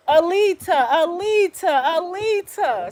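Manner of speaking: high, drawn-out mock repetition; mocking name-calling. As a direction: mimic haters calling out a name. Mimics people repeating her name.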